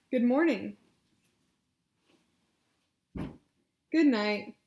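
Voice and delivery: loud, carefully projected phrases; loud clear model phrases. Shown as a demonstration. Therapist models loud phrases to repeat. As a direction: project each phrase for the client to copy. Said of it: "you can just repeat after me".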